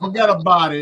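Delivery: playful New York catchphrase; light mock New York accent. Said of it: "try to talk in a New York".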